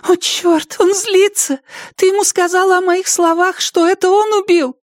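put-on panicked girl. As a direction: blurt it out in high panic. Panicked Zoe. (Зои в панике кричит Робин, высокий испуганный голос)

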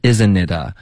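"Isn't it 啊" with the "ne" sounded and linked on; full syllables. Shown as a demonstration. Teacher modelling for a student, full linked "Isn't it 啊". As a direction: keep every syllable of "Isn't it 啊". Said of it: "你发成isn't it".

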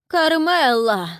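high, drawn-out slow call into the distance; long loud wail for a lost wife. Acted. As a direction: wail the name slowly across the street. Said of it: "снова позвал он".

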